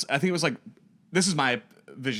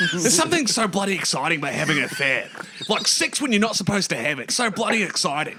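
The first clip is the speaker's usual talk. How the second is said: Hugh Jackman impression; 4 semitones higher than usual.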